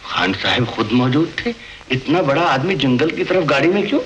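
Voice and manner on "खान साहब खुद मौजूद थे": low, rising question of disbelief; disbelieving echo. Acted. Subordinate questioning his superior's claim, incredulous. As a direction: echo it back as if doubting it. Doubting subordinate echoes the news.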